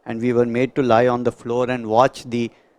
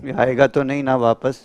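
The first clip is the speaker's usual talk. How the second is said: anxious relative; much faster than usual. Retold or imitated. Relatives anxiously ask about the dead.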